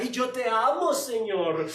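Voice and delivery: lightly voiced overeager disciple; emotional Peter. Preacher voices emotional Peter pledging his life, gushing. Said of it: "Pedro emocionalista".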